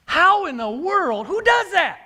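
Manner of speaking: amazed disbelief. Real, not acted. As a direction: marvel at it as if it can't be real. Marvelling at the feat.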